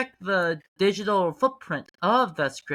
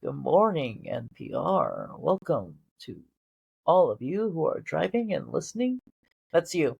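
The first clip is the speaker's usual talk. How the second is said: NPR radio voice. Pretend. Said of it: "you have the voice for N P R".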